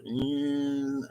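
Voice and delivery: drawn-out humming "mm"; imitated bee buzz. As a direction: buzz like a bee flying close. Imitating a bee's loud buzz.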